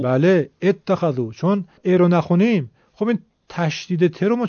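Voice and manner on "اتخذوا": «اتخذوا» with a short «ا» start and a doubled «ت»; clear model reading. Shown as a demonstration. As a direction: say «اتخذوا» with the hamza sounded. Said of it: "باید بگیم".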